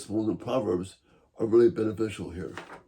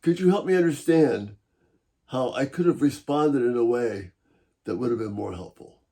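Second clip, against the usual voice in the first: inviting, encouraging. Shown as a demonstration. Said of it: "a tone that's inviting and encouraging".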